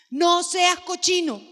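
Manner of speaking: "No seas cochino" gritado; grítalo como padre harto; regaño a gritos. Retold or imitated. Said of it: "Qué otra cosa le decimos". (regañando a gritos)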